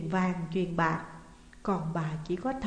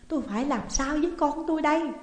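higher, urgent plea; urgent calling back; 6 semitones higher, faster than usual. A narrator's reading. Mother calls back the departing old man, urgent plea. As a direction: call after him in distress. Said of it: "gọi giật lại".

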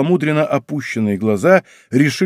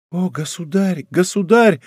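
rising cry of alarm, higher; fearful exclamation; 6 semitones higher than usual. A narrator's reading. Girl exclaims to the king, frightened and high. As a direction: Louise cries out to the king in fear. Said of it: "воскликнула она с выражением непреодолимого страха".

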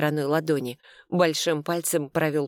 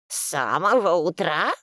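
put-on surprised old lady. A narrator's reading. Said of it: "удивилась бабушка".

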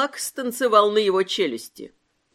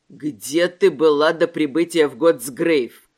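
low, loud, slow bellow; shouted question; 7 semitones lower, 5 dB louder than usual. A narrator's reading. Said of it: "проорал исповедник".

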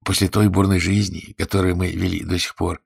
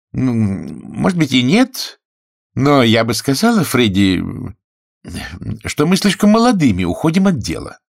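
a lightly voiced young woman, higher, teasing; Fanny's voice; 5 semitones higher, 4 dB louder than usual. A narrator's reading. Fanny doubting Freddie's farm dream, lightly teasing. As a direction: play the sceptical bride, a touch higher.

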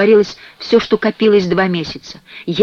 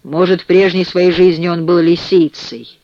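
usual speaking voice

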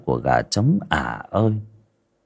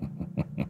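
sly chuckle; 15 dB quieter than usual. Acted. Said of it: "rồi cười hề hề".

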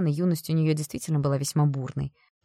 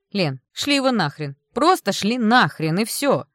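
loud, slow, insistent urging; convinced, forceful; 5 semitones higher, 8 dB louder, slower than usual. Acted. Friend urging the mother to refuse, loud insistent voice. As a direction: hammer the point home. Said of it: "убеждённо говорила Оксана".

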